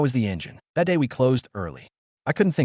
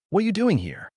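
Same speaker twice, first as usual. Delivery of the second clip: shocked; 10 semitones higher than usual. Acted. Confronting cousin at the shop.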